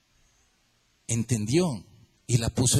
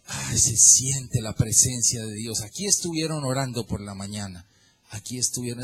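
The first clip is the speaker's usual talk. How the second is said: reverent awe; 4 semitones lower than usual. Acted. Visitor entering a prayed-in house, hushed reverent awe. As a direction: breathe it in reverently. Visitor senses God's presence.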